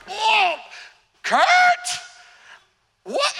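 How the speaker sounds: high, startled whoa; mock innocent surprise. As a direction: play dumb, all innocence. Boy playing innocent to grandma.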